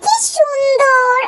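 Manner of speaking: slow, drawn-out delight; admiring exclamation. Acted. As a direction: stretch it out in admiration. Admiring the prince's dancing. (মুগ্ধ হয়ে টেনে টেনে বলা)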